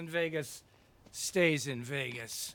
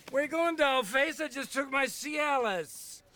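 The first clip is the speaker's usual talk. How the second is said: put-on sleazy old man; 9 semitones higher than usual. Lecherous old Aslo in bed.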